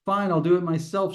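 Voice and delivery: fed-up student throwing the task back, intense. Retold or imitated. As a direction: read it with real irritation, pushing the words out. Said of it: "I can really hear the intensity in her voice".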